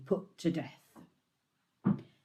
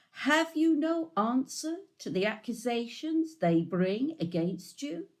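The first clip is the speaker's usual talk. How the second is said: raised, pressing question from the high priest; a lightly voiced high priest, pitched up and insistent; high priest's question; 10 semitones higher than usual. A narrator's reading. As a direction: demand an answer from a silent prisoner.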